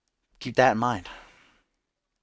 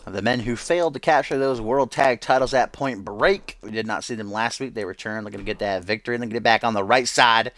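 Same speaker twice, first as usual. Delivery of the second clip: punchy match-preview commentary; wrestling announcer; 2 semitones higher, 3 dB louder than usual. Acted. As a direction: sell the tag team's comeback like a ringside commentator.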